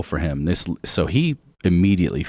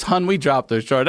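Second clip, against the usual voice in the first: higher, lightly voiced great-aunt; a hint of a familiar Baltimore aunt, pitched up; imitated Baltimore aunt; 4 semitones higher than usual. Great-aunt addressing the judge, higher mimicked Baltimore voice. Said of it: "Everyone calls people hun in Baltimore".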